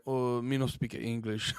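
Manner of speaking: soft, slow, low mock Asian accent. Podcaster quoting Masvidal's answer to the cops, mock Asian accent. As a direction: mumble slowly in a botched Asian accent. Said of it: "did an Asian accent".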